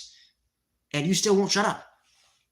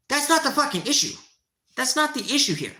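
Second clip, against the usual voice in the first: higher, emphatic denial; frustrated; 6 semitones higher than usual. Real, not acted. Streamer correcting a commenter, frustrated and raised. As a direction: lean hard on not. Angry reply to chat.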